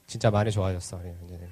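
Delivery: low, soft, affectionate praise; tender praise. Real, not acted. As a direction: praise him gently, fading very quiet. Praising a child's improvement.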